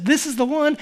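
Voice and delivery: loud, high proclamation; emphatic. Retold or imitated. Preacher voicing John the Baptist, emphatic and loud. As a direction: declare it with total certainty. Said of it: "He's emphatic".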